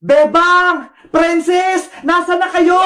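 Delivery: searching call for lost friends. Acted. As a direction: call out with drawn-out names. Calling out for missing friends. (patawag na naghahanap sa mga kaibigan)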